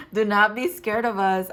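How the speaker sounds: lightly voiced, insistent spirit guides; voicing spirit guides. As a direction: repeat it firmly, just as the guides said it. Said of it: "quite literally how I heard it".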